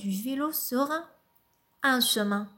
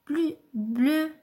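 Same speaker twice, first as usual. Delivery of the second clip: poem reading. Acted. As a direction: recite it gently, pausing after each line. Lit le poème L'âge de raison. (lecture douce et posée d'un poème)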